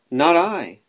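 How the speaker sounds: high, loud bark-like reply; barking dog. A narrator's reading. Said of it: "barked the dog".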